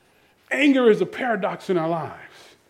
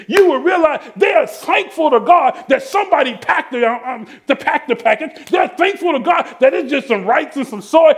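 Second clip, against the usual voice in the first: raised-pitch, pressing sermon delivery; fervent preaching; 5 semitones higher, 3 dB louder than usual. Real, not acted. Preacher urging the congregation to be thankful, fervent. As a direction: preach it with mounting fervor.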